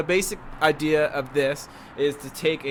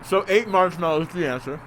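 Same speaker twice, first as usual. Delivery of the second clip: cheeks stuffed full; 3 semitones higher than usual. Real, not acted. Marshmallows still in mouth.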